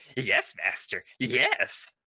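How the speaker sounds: small, little monster creature voice. Voicing a small beholder answering its master: Yoda-like voice. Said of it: "Kinda sounded like a Yoda".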